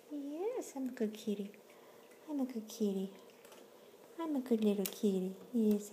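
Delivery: high cutesy voice speaking as the kitten; high sing-song kitten talk. Pretend. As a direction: pretend to be a proud little kitty. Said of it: "voicing kitten in cute voice".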